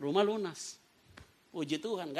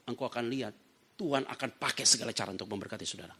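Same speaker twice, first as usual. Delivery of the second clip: lower, measured preaching voice; solemn exhortation; 5 semitones lower than usual. Real, not acted. Preacher urging believers not to borrow money, solemn exhortation. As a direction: counsel the congregation gravely.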